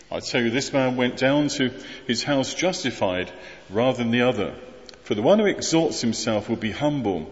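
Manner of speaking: measured, slightly subdued Bible reading; lightly formal reading from scripture. Acted. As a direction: read the parable aloud in even phrases, pausing between them. Reads the Bible passage aloud.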